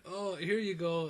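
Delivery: mock Scottish accent. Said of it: "Rowdy Roddy Piper's accent".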